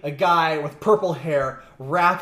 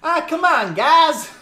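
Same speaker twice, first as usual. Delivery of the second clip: whiny complaint; 11 semitones higher, 6 dB louder, slower than usual. Acted. Costumed person complains.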